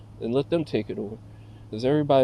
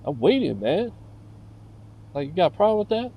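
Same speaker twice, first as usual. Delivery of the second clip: higher, challenging retort; loud confrontation; 4 semitones higher than usual. Retold or imitated. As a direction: square up with words. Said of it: "but I was loud".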